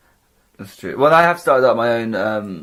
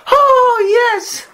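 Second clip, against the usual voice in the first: high, squeaky mocking take on the host; mock Matt Hoss; 3 dB louder than usual. Co-host mocking the host's reply to Laura, high and squeaky. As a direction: mince it out like a smug host. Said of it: "And you're like".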